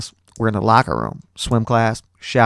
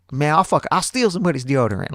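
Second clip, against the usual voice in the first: joking classmate; 5 semitones higher than usual. Retold or imitated. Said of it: "he started making jokes like".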